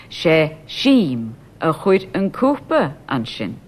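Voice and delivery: "Sheem" said slowly and clearly, whole line slow; slow demo. Shown as a demonstration. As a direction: spell it out slowly for learners. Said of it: "Sheem is brought forward".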